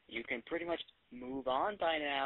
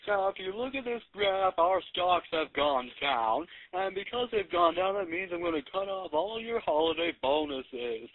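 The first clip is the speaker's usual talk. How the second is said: droning boss. Retold or imitated. Boss addressing staff at a town meeting, mock pompous drone. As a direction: lecture the staff like a self-important boss. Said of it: "her boss sounded a little something like this".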